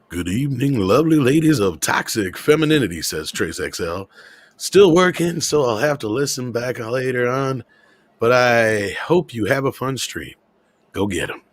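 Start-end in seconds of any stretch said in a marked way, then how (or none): 0.1-3.0 smooth radio-host reading. Acted. Reading a fan's super chat, smooth voice. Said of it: "with a smooth voice". 4.6-11.4 smooth radio-host reading. Acted. Reading a fan's super chat, smooth voice. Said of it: "with a smooth voice".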